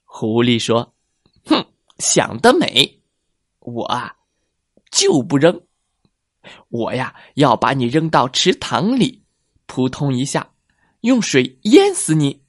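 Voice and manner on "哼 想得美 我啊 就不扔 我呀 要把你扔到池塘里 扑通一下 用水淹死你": menacing fox. Acted. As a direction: growl out the fox's threat. Fox threatens again.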